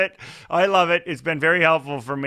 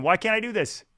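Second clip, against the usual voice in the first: higher, exasperated inner whine; frustrated inner critic, pitched up; frustrated self-criticism; 5 semitones higher than usual. Retold or imitated. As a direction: berate yourself in exasperation. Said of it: "I'm going".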